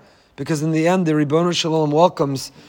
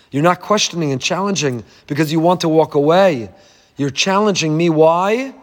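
gentle reassurance. Retold or imitated. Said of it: "gently and lovingly".

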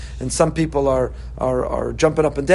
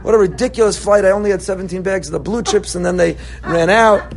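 louder, petty griping; mock complaint; 3 semitones higher, 4 dB louder than usual. Passenger griping to a loved one about chips, mock whiny. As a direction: gripe like an entitled traveler. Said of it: "We're telling our loved one".

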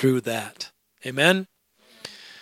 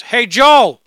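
mock holler with raised pitch; retold yell; 9 semitones higher, 11 dB louder than usual. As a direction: boss calling out from his office, loud and high. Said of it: "yells from his office".

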